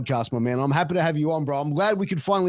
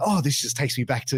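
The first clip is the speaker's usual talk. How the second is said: mock frantic, excited gushing, like freaking out. Retelling a man in new york hearing an australian accent, imitating someone freaking out. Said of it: "he was like freaking out".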